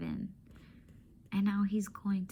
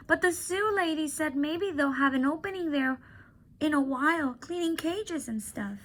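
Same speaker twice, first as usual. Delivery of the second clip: put-on much higher girlish voice, tender and sad; a girl saying goodbye to her friend; young girl Julia; 7 semitones higher than usual.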